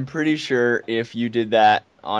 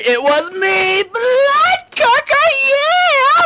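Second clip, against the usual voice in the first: high, slow, booming hype announcer; epic commentator voice; 6 dB louder, much slower than usual. Pretend. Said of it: "Do I have to do the epic commentator voice thing".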